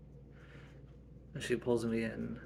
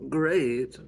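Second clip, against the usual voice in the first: surprised; 3 semitones higher, 11 dB louder than usual. Acted. Reacting to mom's praise.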